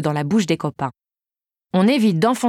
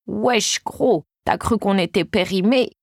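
trembling little voice; slower than usual. Acted. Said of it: "une petite voix tremblotante".

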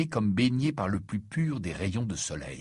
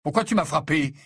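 louder, higher protest; indignant cry; 6 semitones higher, 6 dB louder than usual. A narrator's reading. Harry confronts his friend who hit him, crying out. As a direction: cry out the question in outrage. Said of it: "s'écria Harry".

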